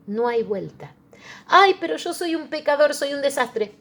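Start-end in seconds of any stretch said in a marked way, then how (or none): 1.5-3.7 high, loud pleading whine of a sinner; doubting sinner. Acted. A preacher voicing a sinner's lament, high pleading whine. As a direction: plead your unworthiness, voice pitched up.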